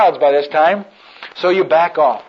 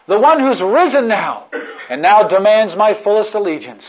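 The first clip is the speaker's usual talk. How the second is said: laughing through the words, louder; joyful laugh; 4 semitones higher, 4 dB louder than usual. Acted. Cross-bearer rejoicing at his privilege, laughing. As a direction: let the joy spill out as laughter.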